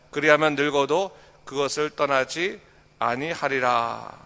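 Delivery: measured, solemn reading of verses; scripture reading. Acted. Pastor reading Proverbs aloud to the congregation, solemn and measured.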